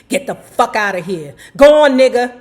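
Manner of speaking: loud furious southern yell rising; screaming. Retold or imitated. Irate cop screaming the singer out of the room. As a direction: chase him off with a shout. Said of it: "the irate white man kept screaming".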